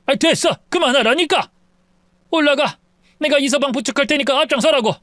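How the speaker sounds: a hint of an urgent, hushed older man; restraining husband. Father-in-law hushing. (아내를 말리는 다급한 장인)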